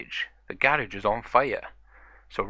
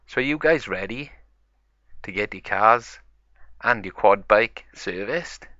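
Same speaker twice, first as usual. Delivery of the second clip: eager; 6 dB louder than usual. Acted. Peppa eager to start service.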